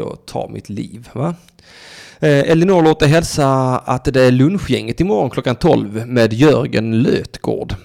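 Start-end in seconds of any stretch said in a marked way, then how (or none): 6.1-7.7 slow announcer hype. Acted. Drawn-out name announcement.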